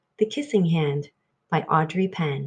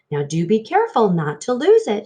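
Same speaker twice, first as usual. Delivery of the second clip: playful mock warning; lightly teasing mother; 5 dB louder, faster than usual. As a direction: tease him gently. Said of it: "she teased him".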